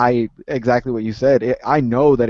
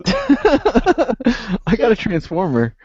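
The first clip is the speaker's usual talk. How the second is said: high, drawn-out mock complaint, easing down; 6 semitones higher, much slower than usual. Co-host jokes about a disappointed Transformer owner, mock complaint. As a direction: stretch it out slowly from a high, mocking start. Mocking line after laughing at the scenario.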